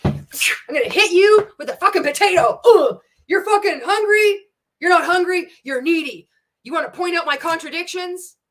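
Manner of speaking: high, loud sneering mock preacher; mocking impression. Mocking the MLM pastor to viewers, high loud sneer.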